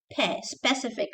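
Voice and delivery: "pe" alone, then "specific" with P; clear P. Shown as a demonstration. Teacher correcting the B, clear P in "specific". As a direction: correct "specific" with a clean P after S. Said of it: "not specific".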